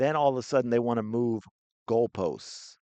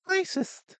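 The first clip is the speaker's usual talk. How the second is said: indignant shout. Real, not acted. Calling out the columnist.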